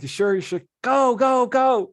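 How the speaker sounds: high, loud teasing; high mock-urging quote of himself. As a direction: tease her gently. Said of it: "I'm like".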